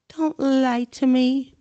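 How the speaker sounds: slow, tearful plea; choked with tears; gasping hurt. Acted. Myrtle to Hermione, tearful gasp. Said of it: "Myrtle gasped".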